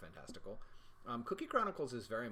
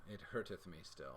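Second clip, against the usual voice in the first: mock archaic lament; 5 semitones lower, 5 dB quieter than usual.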